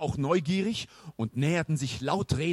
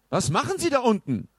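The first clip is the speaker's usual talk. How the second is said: put-on high, pompous old knight; 9 semitones higher, 3 dB louder than usual. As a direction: announce yourself like a grand knight. Knight asks.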